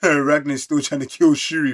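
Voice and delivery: laughing. Real, not acted. Laughs while reading.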